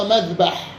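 مذبح with short a after the ب: madhbaḥ; فتح الباء. Shown as a demonstration. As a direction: say مذبح with a fatha on the ب. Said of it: "بالفتح". (مذبح بفتح الباء)

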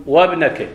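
وابنك run together as wabnek; joined hamza. Shown as a demonstration. Teacher showing the class how to join the hamza. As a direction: hamza elided. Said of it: "كما تقول".

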